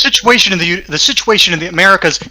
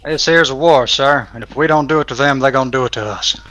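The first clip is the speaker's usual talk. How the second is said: a hint of a West Virginian officer drawling; 2 semitones lower than usual. American officer answering British observer, mild West Virginian drawl. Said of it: "do you want to do a West Virginian drawl?".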